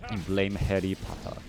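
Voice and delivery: attempted British Harry Potter accent; mock-British, tapped R in Harry. Shown as a demonstration. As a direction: put on a stereotypical British accent. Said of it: "Whenever you try to do an accent".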